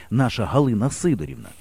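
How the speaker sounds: ordinary delivery, nothing marked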